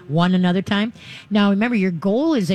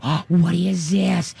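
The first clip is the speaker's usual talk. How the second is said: slow, wondering "Oh, what is this?"; showing the dog a toy with fake wonder; mock amazement; much slower than usual. Shown as a demonstration. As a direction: act amazed and draw it out slowly. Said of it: "And then you can go".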